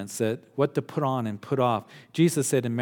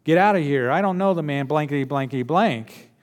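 Peter's loud angry denial, higher; 4 semitones higher, 5 dB louder than usual. Retold or imitated. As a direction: shout the denial back, cursing. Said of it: "And he's going".

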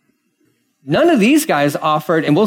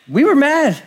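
Peter admitting; 11 semitones higher than usual. Retold or imitated. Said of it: "I mean, like".

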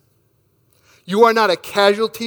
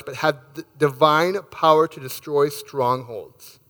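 scripture reading; 3 semitones lower than usual. Acted. Pastor reading scripture to the congregation, reverent and measured. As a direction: read the verses with reverent care. Pastor reads Corinthians aloud.

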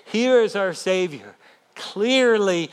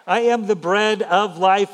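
mild proclaiming shout. Shown as a demonstration. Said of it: "and he shouts this".

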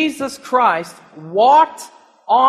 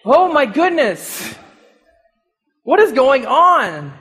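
mock frightened cry; 3 semitones higher, 3 dB louder than usual. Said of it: "Cry out and say".

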